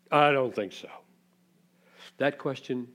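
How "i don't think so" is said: dismissive doubt. Acted. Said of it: "the question that says".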